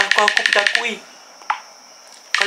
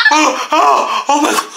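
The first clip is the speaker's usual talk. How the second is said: nervous laugh; 3 semitones higher than usual. Real, not acted. Laughing after the scare.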